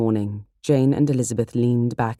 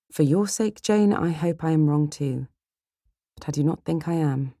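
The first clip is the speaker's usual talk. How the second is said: slightly raised, sincere voice; lightly voiced regretful caution; sober sister Elizabeth; 5 semitones higher than usual. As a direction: answer your sister kindly but firmly.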